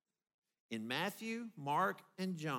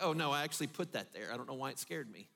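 sheepish self-talk; 5 semitones lower, faster than usual. Retold or imitated. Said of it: "then we're like".

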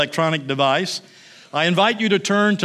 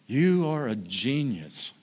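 awed; 4 semitones lower, 6 dB quieter than usual. Acted. Angel in awe.

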